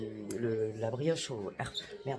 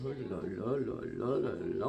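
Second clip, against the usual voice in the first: drawn-out delight; 5 semitones lower, slower than usual. Real, not acted. First look at the brioche.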